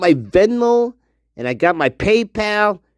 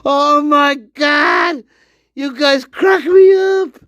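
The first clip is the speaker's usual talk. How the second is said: excited shout; 8 semitones higher than usual. Real, not acted. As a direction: shout with delight.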